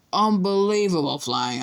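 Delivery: high, slow admiring; impressed praise. A narrator's reading. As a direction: gush over the flying. George praising Harry.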